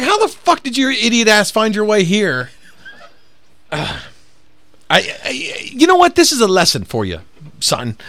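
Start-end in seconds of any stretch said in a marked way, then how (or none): 0.0-2.5 much higher, slow disbelieving sneer; mocking a lost customer in disbelief; incredulous scorn. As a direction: drag out the disbelief. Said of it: "And I'm like".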